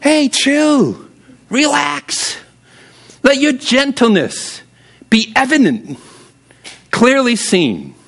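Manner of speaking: high, airy voice of God saying chill; God's voice. Retold or imitated. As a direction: play God gently telling you to relax. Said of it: "I don't know if God quite says it that way".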